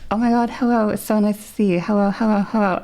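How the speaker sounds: high, put-on friendly greeting; imitating own high practice voice; active voice. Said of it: "when I came out with a good voice".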